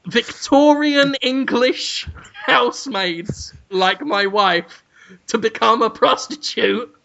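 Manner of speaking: slow, mock-indignant speech with drawn-out words; Brendan Fraser. Husband complains to camera about his wife's fate, mock-indignant. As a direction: play a grave complaint, stretching the key words. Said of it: "Brendan Fraser says".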